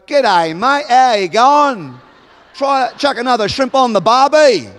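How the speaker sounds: hammed-up attempt at an Australian accent; mock Australian accent. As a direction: imitate someone badly faking an Australian accent. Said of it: "they try to do an Australian accent".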